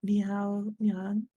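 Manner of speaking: slow drawn-out cutesy greeting; cutesy nya speak. Pretend. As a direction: stretch it out like a cute cat. Echoing the cat greeting.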